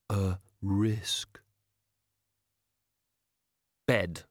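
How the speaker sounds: hushed, whispered reluctance; reluctant utterance. A narrator's reading. Robed being forcing out a dreaded word, hushed. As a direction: whisper it as if loath to say it. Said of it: "loath even to think the word".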